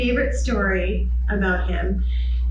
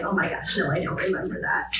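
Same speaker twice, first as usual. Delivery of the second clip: much softer, breathy throwaway; mock hushed dismissal; 6 dB quieter, faster than usual. Teacher quietly waving off a student's old memory. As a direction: brush it off under the breath.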